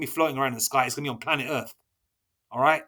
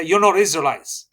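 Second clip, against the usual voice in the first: loud, raised preaching rebuke; 6 dB louder than usual. Acted. Preacher loudly tells outsiders they are not the chosen.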